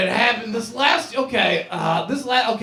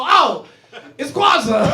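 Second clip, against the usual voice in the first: mock surprise; 6 semitones higher, 6 dB louder, slower than usual.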